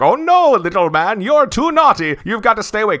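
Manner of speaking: high, loud, mincing voice of a scolding guard; mock high squeaky character voice. Podcaster imitates a film character scolding, hammed-up high voice. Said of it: "And he's like".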